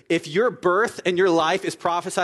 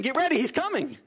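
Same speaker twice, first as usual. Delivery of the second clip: herald crying out; 9 semitones higher than usual. Retold or imitated.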